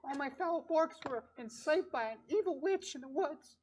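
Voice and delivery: high-pitched little critter voice; small, high, earnest squeak; tiny creature pleading. Acted. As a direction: tell your woe as a tiny furry creature. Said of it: "you hear a tiny voice".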